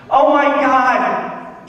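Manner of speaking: put-on high, slow drawn-out teen girl wail; bratty teen whine.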